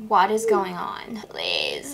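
slow secretive whisper; hushed whisper. Acted. Friends whispering at the door at night. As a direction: keep it under your breath.

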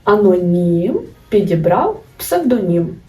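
slow, псевдонім rhyming on "нім"; slow mnemonic rhyme. Shown as a demonstration. Teacher to students, slowly reciting the псевдонім rhyme. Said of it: "Або ж".

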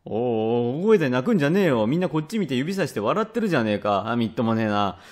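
put-on embarrassed dad hushing a crying child; lightly acted exasperation, starting in a hurry; flustered scolding father. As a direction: scold as if everyone is staring.

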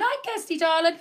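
excited greeting. Real, not acted. Greets live viewer.

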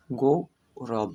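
গৌরব stretched very slowly, গৌ held long; slow demo word. Shown as a demonstration. Teacher models গৌরব for pupils, very slowly. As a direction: draw out গৌরব syllable by syllable. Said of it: "তাই এর সম্পূর্ণ উচ্চারণ হবে".

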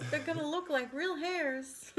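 laughing through the words; giggly, slowed, laughing delivery. Real, not acted. Laughing at cake joke.

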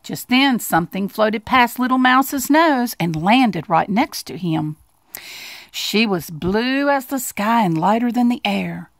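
put-on expressive children's story narration; storybook narration. A narrator's reading. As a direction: read it like a picture book, lingering on key words.

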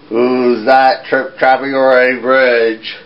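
lightly voiced troll, slow and looming; slow troll question. Troll challenges the goat on his bridge, slow.

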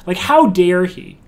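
indignant. Real, not acted. Indignant at the pushy solicitor.

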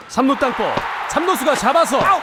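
rising shout through the double play; building excited call. Real, not acted.

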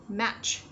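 MATCH with a clearly released final CH; careful model of "Match" ending on CH; released ending sound. Shown as a demonstration. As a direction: pop the CH that closes "Match". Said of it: "Nhớ bật ending sound nhé".

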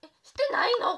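high, loud shocked cry. Real, not acted. Streamer shocked at her own face on camera, loud disbelief. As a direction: blurt it out in disbelief.

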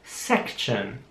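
quiet careful "Section"; "Section" softly and slowly. Shown as a demonstration. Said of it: "Ich sag das Wort noch einmal langsam".

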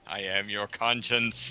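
soft, hushed inner voice; conscience voice. Acted. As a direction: murmur like a nagging conscience. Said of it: "So it's like his conscience".

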